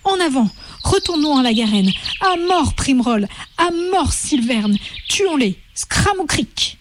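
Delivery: high, rising battle yells; frenzied war cries. Acted. The mob of rabbits yelling for revenge on the warren.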